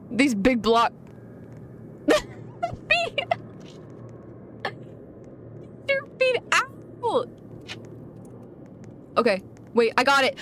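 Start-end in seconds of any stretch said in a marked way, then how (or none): 2.1-7.3 high squeal through real laughter; helpless high-pitched giggling; cracking up. Real, not acted. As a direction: barely get the words out for laughing. Cracking up at the feet.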